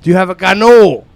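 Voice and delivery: imitating a loud drunk asking; retold drunken request. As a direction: call it out like a tipsy customer. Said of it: "I had a couple too many drinks".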